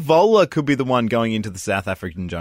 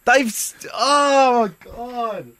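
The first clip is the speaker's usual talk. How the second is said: high-pitched, fading exasperation; exasperated; 9 semitones higher, much slower than usual. Real, not acted. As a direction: break off fed up, pitch raised, then drop away. Gives up after interruptions.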